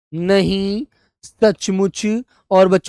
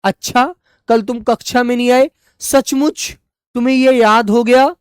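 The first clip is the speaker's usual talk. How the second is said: higher, lively surprised reading; surprised exclamation; 5 semitones higher than usual. Shown as a demonstration. Teacher acting out example sentence, surprised and higher. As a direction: say it as if truly surprised. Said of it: "वहां पर हम अल्प विराम का प्रयोग करते हैं ऐसे".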